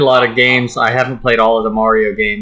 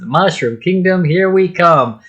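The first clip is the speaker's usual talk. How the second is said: higher voice quoting Bowser's line; Bowser line imitation; 5 semitones higher, slower than usual. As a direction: put on the trailer voice. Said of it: "and he said".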